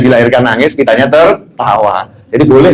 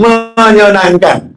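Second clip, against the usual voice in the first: MENYENANGKAN stretched long on its first syllable; slow, lengthened "menyenangkan"; drawn-out emphasis; 7 semitones higher, much slower than usual. Real, not acted. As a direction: hold the start of "menyenangkan", then release it. Stretches the promised happy life.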